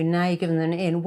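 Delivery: ordinary talk, nothing marked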